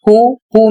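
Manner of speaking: हु said twice as hoo, pitched a little up; repeated model word. Shown as a demonstration. Teacher repeating who as hoo for the students. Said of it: "W H O".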